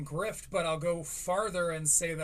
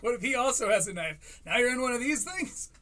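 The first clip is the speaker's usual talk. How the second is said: mimicking high voice; 6 semitones higher, 4 dB louder than usual. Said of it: "he's like".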